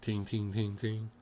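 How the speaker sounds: light ringing "ting" repeated evenly; imitated metallic ting. Metal cards hitting the floor, imitated tings. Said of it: "start hitting the floor like".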